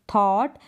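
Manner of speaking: थॉट said as thought, with an open aw; model pronunciation. Shown as a demonstration. Teacher answering her own question: थॉट. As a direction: give थॉट a clear aw vowel. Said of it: "इसको आप पढ़ेंगे थॉट".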